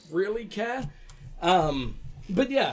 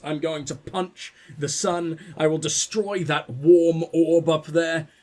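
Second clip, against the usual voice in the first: mock villain threat; 3 dB louder, slower than usual. Mock threat against the sun.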